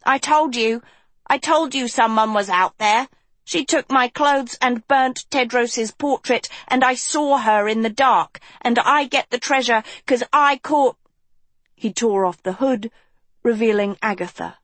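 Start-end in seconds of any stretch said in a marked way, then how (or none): 0.0-11.0 panting out of breath. Acted. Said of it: "leaving Hort huffing and puffing".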